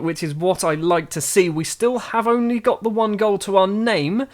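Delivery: lifted, driving football commentary; play-by-play commentary. Real, not acted. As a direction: call the match live, keenly. Live match commentary.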